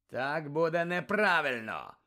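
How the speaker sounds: thundered. Acted. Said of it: "прогримів Муді".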